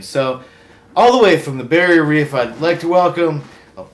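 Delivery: loud, showy host delivery; talk show host. Acted. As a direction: welcome the guest like a TV host. Hosts a TV talk segment.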